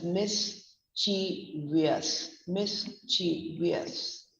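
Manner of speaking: "mischievous" slowly, broken into mis, chi, vious; careful mischievous. Shown as a demonstration. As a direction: say "mischievous" in slow, separated syllables. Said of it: "It's pronounced as".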